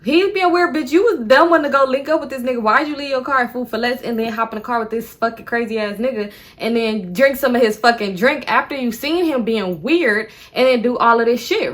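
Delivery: lightly mimicked scolding from viewers; scolding commenters. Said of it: "y'all probably about to be in the comments".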